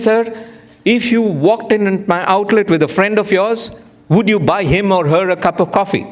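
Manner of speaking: a hint of a patient Italian barista; lightly voiced barista. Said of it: "He says".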